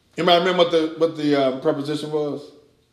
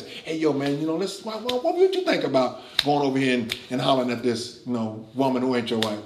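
softer, quick laid-back pal; a lightly voiced sly friend nudging; casual tempting buddy; 3 semitones lower, 6 dB quieter, faster than usual. Preacher mimics flesh as a casual buddy, softer. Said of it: "It's not giving you suggestions".

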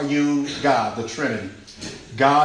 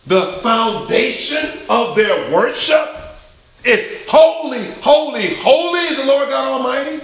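loud, high, insistent sermon delivery; preacher's ringing proclamation; full-force preaching; 10 semitones higher, 8 dB louder than usual. Real, not acted. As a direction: drive it home to the congregation.

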